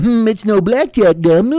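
slow, ponderous gum-show host; mock podcaster. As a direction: savor the gum like it's fine wine.

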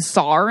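"sar" with an R on the end of saw; added R. Shown as a demonstration. Asking about the Rhode Island accent, "sar" with added R. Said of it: "We add R's to words".

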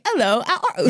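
bad Cockney. Shown as a demonstration. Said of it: "Waiting for Guffman Cockney".

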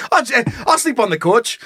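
high Minnesota voice with round vowels; Minnesota accent. Acted. Husband offering to take the couch, comic Minnesota accent. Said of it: "Yeah, that's Minnesota".

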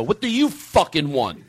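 slow, emphatic mock hostility; mock aggressive. Host to a passerby at the truck, mock aggressive. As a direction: challenge them with pretend irritation. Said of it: "So you take it aggressively".

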